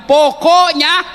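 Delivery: "Pokoknya" stretched long and lifted at the end like a stubborn wife; mock wife's final word. Preacher mimicking a wife ending an argument, slow and rising. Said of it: "Apalagi kalau dia sudah bilang".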